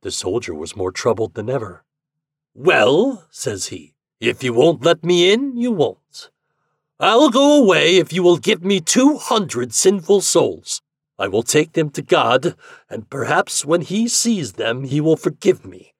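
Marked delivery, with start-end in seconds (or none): 2.5-3.3 loud, high opening word; raised, projected voice; soldier's retort. A narrator's reading. Soldier answers the prince back. 4.2-15.9 high, projected soldier's voice; raised voice, easing toward the end; bargaining loudly. A narrator's reading.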